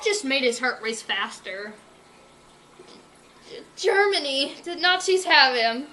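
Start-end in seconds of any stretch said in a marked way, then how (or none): 3.8-5.9 high, loud alarmed cry; cried out. Acted. Berkeley telling Sadie the news, loud alarmed cry. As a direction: cry out in distress. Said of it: "Berkeley cried out".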